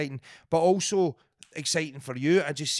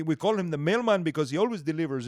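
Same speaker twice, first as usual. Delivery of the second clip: Mario voice. Retold or imitated. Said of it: "Mario's got a distinct voice".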